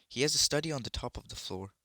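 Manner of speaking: put-on a boy sharing a spooky mystery, excited. A narrator's reading. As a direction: tell it like a thrilling secret. Diggory telling of mystery.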